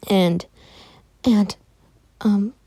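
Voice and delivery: halting, with long gaps between fillers; stuttering. Acted. Izuka falters explaining it to the doctor, halting stutter. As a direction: stall and falter, unable to get it out. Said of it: "As she starts stuttering too".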